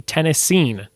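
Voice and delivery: "Tennessean" as TEN-uh-seen, falling at the end; corrected pronunciation. Shown as a demonstration. Quiz host after spelling the element, corrected pronunciation. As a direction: settle on "Tennessean" with a long final seen. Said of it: "No, Tennessean?".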